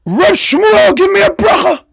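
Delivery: high-pitched hollered plea; acted shouting demand, pitch way up; demanding call. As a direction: call out urgently as an insistent lady, very high. Lady suddenly accosts him again.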